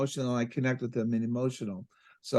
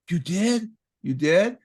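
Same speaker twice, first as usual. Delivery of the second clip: amazed reaction; 4 semitones higher, 3 dB louder, slower than usual. Retold or imitated. Retold client amazed.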